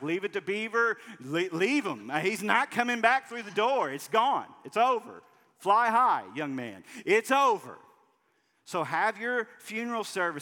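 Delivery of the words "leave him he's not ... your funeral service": very loud, high, dry, mildly sarcastic delivery. Addressing listeners about the good old days: a little sarcastic. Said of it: "I know I'm being a little sarcastic right now".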